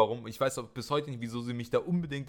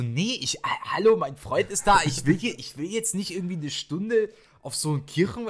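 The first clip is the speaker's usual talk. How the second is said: whiny protest; 7 semitones higher than usual. Retold or imitated. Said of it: "und ich so".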